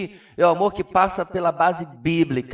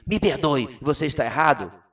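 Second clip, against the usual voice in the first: blunt tone. Shown as a demonstration. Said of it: "A única diferença é a entonação de voz".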